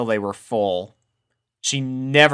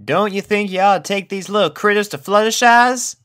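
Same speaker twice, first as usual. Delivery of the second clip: Applejack voice; 10 semitones higher, 4 dB louder than usual. A narrator's reading. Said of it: "asked Applejack".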